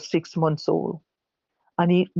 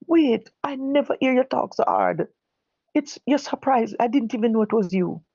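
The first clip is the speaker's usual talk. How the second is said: high-pitched and startled, words tumbling out; a policeman caught off guard, voice jumping up; startled inspector; 5 semitones higher than usual. Retold or imitated. Inspector, shocked to hear her talk so hard, startled and high.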